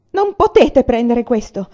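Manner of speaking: loud, slow, defiant cry. A narrator's reading. Mother shouting at soldiers taking the sword, slow loud cry. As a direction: refuse them with all her voice. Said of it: "gridò Rossella".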